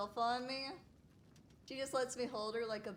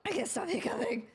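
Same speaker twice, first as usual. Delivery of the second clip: speaking through hiccups; fighting off hiccups. Real, not acted. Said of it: "I always get hiccups".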